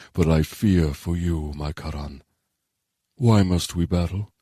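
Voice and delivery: slow, stately dragon voice; drawn-out, weighty creature voice; solemn dragon. Acted. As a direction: speak slowly as an ancient, concerned dragon.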